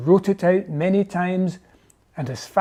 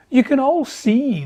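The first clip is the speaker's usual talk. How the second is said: higher, louder address; owl addressing crowd; 7 semitones higher, 4 dB louder than usual. A narrator's reading. Howlet addresses the council of birds, raised voice. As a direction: call out to the gathered birds. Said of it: "the Howlet said".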